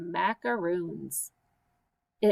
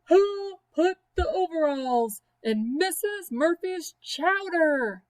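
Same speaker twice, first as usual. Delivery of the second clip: higher, louder call across the room; louder again, still no answer; 7 semitones higher than usual. Acted. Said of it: "So she said it all the louder".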